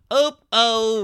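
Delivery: hammed-up retold dismay; mock dismay. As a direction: play up a sing-out of alarm. Acting out power failure reaction.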